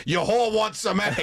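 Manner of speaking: high, slow, sing-song insult; mom's mock-sweet jab. Mom offering the son's date eggs, high sing-song scorn. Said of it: "she goes".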